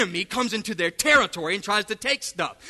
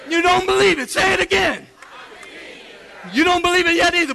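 loud, higher preacher push; urging shout; 6 semitones higher, 3 dB louder, faster than usual. Real, not acted. Preacher goading congregation to repeat, loud and higher. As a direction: push the crowd to answer louder. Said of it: "Everybody say".

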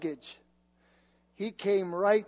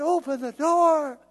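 demanding; 6 semitones higher, 8 dB louder than usual. Retold or imitated. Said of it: "I said".

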